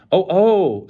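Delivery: high, loud gasp of wonder; crowd's delighted oh; awed oh. A narrator's reading. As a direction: marvel like at fireworks. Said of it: "as though they were looking at fireworks".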